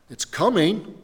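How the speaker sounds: ordinary delivery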